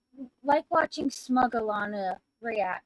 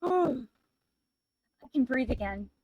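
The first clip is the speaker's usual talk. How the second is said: relieved sigh; much slower than usual. Real, not acted. Relief after finding the name.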